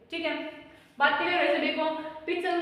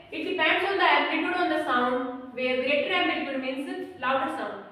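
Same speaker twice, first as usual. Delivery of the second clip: slow, deliberate dictation for notes; much slower than usual. Real, not acted. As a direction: read it out slowly so they can write. Dictating definition to students. (धीमे-धीमे लिखवाना)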